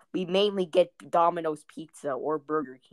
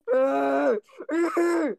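high mock wail; 11 semitones higher, 6 dB louder than usual. Imitating the enraged kid's noise.

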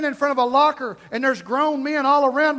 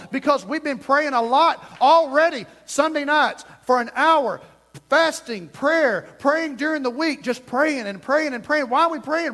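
raised, emphatic preacher's delivery; insistent pulpit rhythm; fervent preaching; 4 semitones higher, 4 dB louder than usual. Real, not acted. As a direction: punch the phrases to rouse the congregation. Preaching builds in force.

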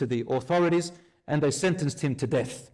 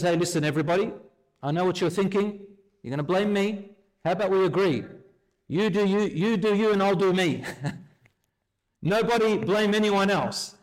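mocking Iblis; 4 semitones higher than usual. Iblis taunting the damned before hellfire, high and smug. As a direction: shrug off all blame, smug and high.

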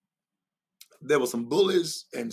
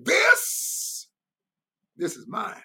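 Father's tender claim. Retold or imitated. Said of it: "what the Father's saying".

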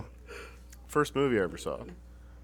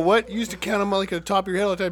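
incredulous protest; 9 semitones higher, 5 dB louder, faster than usual. Retold or imitated. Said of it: "I go".

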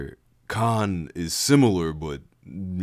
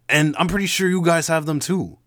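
careful; 10 semitones higher, 6 dB louder than usual. Acted. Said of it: "Jack said carefully".

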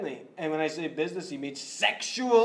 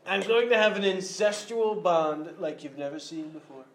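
Trump impression. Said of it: "President Trump here".

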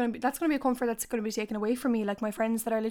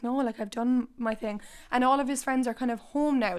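wheezy voice. Real, not acted. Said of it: "sorry if I'm wheezing as well".

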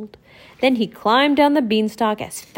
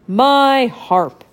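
dim giant cyclops; 2 semitones higher, 5 dB louder than usual. Acted. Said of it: "cried the giant".

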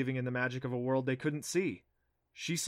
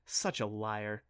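taunting; 3 semitones lower, slower than usual. Acted. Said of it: "she taunted".

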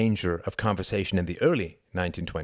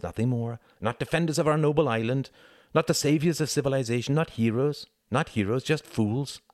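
a lightly voiced bitter young debater, building in intensity; impassioned arguer; 4 semitones higher than usual. Tom rails at Hart about the fallen fathers, mildly impassioned. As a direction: build the list of grievances towards a higher pitch. Character's impassioned speech in a novel.

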